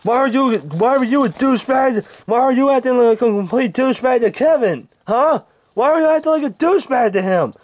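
high-pitched angry yell at the boss. Acted. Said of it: "Stop yelling at me".

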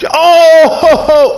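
high startled whoop; surprised yelp. Real, not acted. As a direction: yelp as the jump lands. Surprised by the jump.

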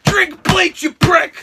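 building loud furious string of curses; angry cursing. Retold or imitated. Texting the flaking friend, building to furious yelling.

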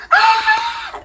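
piercing high, loud squeal; gushing mom's scream; excited scream. Retold or imitated. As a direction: shriek out as an overexcited mother. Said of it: "que louca que tá gritando".

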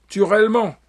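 cracked sneering crone. A narrator's reading. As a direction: jab at them like a mocking old woman. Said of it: "mais d'une voix cassée, ricanait". (voix cassée et ricanante)

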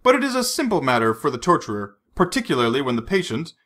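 lightly voiced smooth villain; a hint of a cold, menacing captor. Le Chiffre speaking.

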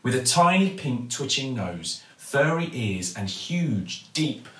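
ordinary delivery

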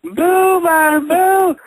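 high, light mocking boo; high teasing boo, lightly sung. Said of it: "Jesse would've been like".

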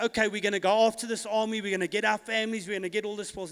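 quick, run-on mock battle plan; hasty eagerness. Preacher imitating David rushing after the army, hasty. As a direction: rattle off the plan without stopping to think.

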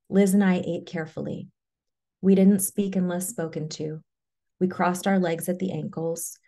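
measured, carefully phrased memoir reading; story narration. A narrator's reading. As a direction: read the memoir aloud, line by deliberate line. Reads a memoir aloud.

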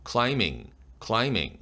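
"climbing" with no b sound; "climbing" said as climing; silent b. Shown as a demonstration. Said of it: "비철자가 묵음이 되죠".

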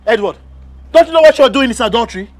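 angry confrontation. Acted. Husband confronts wife's lover.

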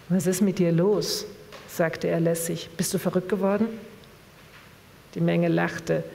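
measured literary reading voice; calm book reading with voiced dialogue; story narration. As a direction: read the novel aloud to the audience. Reads a novel passage aloud.

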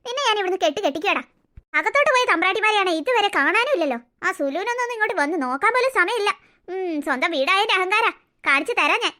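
put-on low, grudging old woman plotting revenge; spiteful grandmother. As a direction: mutter threats like a jealous mother-in-law.

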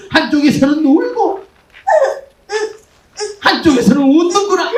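laugh-crying through the words; half laughing, half sobbing; laughing into sobs. Acted. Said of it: "미친듯이 울기 시작한다".

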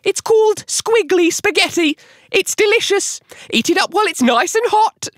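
very high-pitched wife's squeak; Missus Twit. A narrator's reading. Wife urging husband to eat, high squeaky voice. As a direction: squeal it out like a comic old-story wife. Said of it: "Missus Twit said".

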